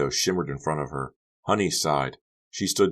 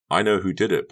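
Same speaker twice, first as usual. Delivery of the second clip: bitter; 4 semitones higher, 5 dB louder than usual. Acted. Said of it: "Becca thought bitterly".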